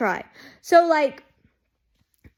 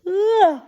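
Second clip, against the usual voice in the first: high yawning groan; a yawn slips out as a groan; involuntary yawn; 7 semitones higher, 3 dB louder than usual. Real, not acted. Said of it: "I don't know why I'm yawning".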